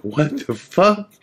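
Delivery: high, slow startled outburst. Retold or imitated. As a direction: jump at the sudden bang. Startled by the slamming door.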